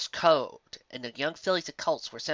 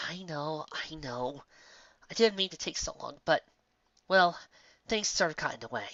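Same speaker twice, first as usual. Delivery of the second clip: tearful; 2 semitones higher, 3 dB quieter than usual. Acted. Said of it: "unable to hold back her own tears".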